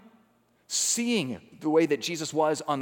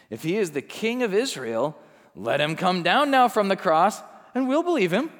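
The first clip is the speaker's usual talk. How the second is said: mocking leaders; 3 semitones higher, 3 dB louder than usual. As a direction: throw it out as a rising dare. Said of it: "they too chose to mock him".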